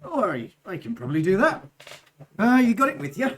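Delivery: put-on Goliath smith, accent drifting from Devon; a drifting Yorkshire-ish burr; wandering accent. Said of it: "The Goliath accent just wanders around".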